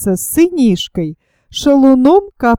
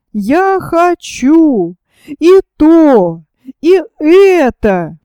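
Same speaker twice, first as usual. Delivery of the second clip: put-on slow, lightly whined child's demand; whiny child; 3 semitones higher, slower than usual. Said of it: "Любят хныкать и просить".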